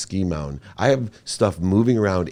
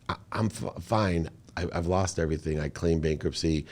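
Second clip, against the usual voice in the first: crying; 7 dB quieter than usual. Retold or imitated. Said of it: "I'm crying while I'm saying it".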